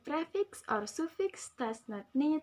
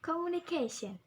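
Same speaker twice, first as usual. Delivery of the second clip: "Communication" with CA raised, falling after; stress on CA; 5 semitones higher than usual. Shown as a demonstration. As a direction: lean on the KAY sound in "Communication". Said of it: "The stress at the K".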